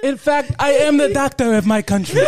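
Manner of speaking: proud village healer, put-on African accent; comic African accent, earnest. Village doctor boasting of patients, African accent. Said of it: "got to do that accent".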